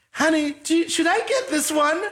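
high, sweet wife asking honey; lightly voiced wife checking with him; wife's voice. Wife asks her husband in the store, high voice.

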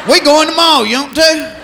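"yumpty" as one fused Southern word; Southern slurred word. Shown as a demonstration. Southerner inviting someone to the mall, slurring it. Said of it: "we have words like".

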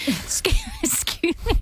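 high, rising mock disbelief; incredulous. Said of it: "I'm like".

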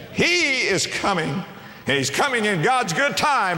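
rising preacher's cry; high ringing proclamation. Real, not acted. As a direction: voice lifted high on the repeat. Repeated, rising in force.

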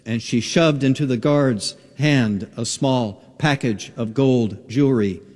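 ordinary talk, nothing marked

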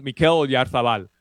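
name said the Spanish way, "Oyarzabal" with a lisped th for the z; Spanish-accent pronunciation of "Mikel Oyarzabal", like a Spanish announcer; "Oyarzabal" rolled out in a Spanish accent, the z as th. Real, not acted. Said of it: "I'm saying it with a Spanish accent".

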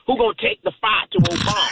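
a light Texas drawl, pitch jumping up at the end. Retold or imitated. Texas drawl mimicking Republican voters to a radio host. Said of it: "I'm gonna say in my best Texas drawl".

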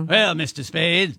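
put-on slow, drawn-out old movie voice; classic film-noir villain. Host imitating the Maltese Falcon actor, slow impression. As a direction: draw it out like a screen heavy. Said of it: "He talks like this".

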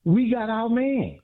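high, drawn-out triumphant declaration; real excitement. Real, not acted. Sports fan boasting to radio host about a trade, excited. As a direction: stretch it out high, exulting. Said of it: "You sound so excited".

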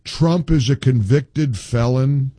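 drawn out slowly, leaning on is; host mocking the caller's complaint, slow and sneering; slow mocking repeat. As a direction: drag it out in scorn. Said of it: "when I'm already in a mood".

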